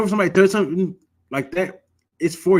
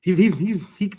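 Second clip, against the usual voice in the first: lightly mimicked artificial larynx, slightly higher; imitated voice-box speech; 4 semitones higher than usual. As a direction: stutter it out like a man with a voice box implant. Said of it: "He had to talk like this".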